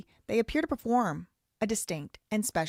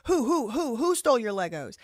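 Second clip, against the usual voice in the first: mock innocent question; 4 semitones higher, 4 dB louder than usual. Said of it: "he then said again".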